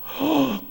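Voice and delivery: sharp, moved intake of breath; gasp. Retold or imitated. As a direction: gasp as if struck by the words. Moved by father's retold words.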